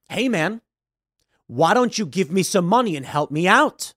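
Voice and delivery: loaded request with a drawn, rising end; implied threat. Acted. Mugger posing as a panhandler, lightly implied threat. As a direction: lean on the plea so it hints at menace. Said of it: "The implication and the way".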